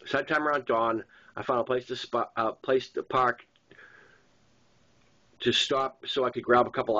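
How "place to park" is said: ordinary delivery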